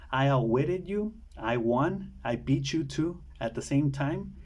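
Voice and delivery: normal talking voice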